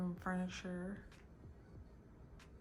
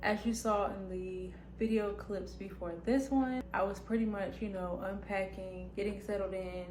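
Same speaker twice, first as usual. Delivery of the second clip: talking with retainers in, lisp; slight lisp from retainers. Real, not acted. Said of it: "I have my retainers in, so if you hear, like, a little lisp".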